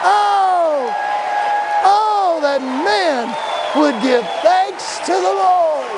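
high, slow, fervent thanks; praise cry. Acted. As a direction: draw out the praise. Leading praise.

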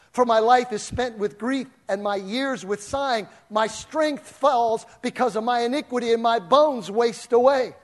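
loud scripture preaching. Acted. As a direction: proclaim the verse with force.

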